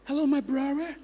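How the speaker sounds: high-pitched "brother" said as "brarra"; mispronounced brother. Retold or imitated. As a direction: imitate a learner turning "brother" into "brarra". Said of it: "brother as brother".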